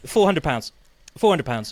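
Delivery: calling out prices like an auctioneer. Pretend. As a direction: rattle off bids at an auction. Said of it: "I sound like an auctioneer".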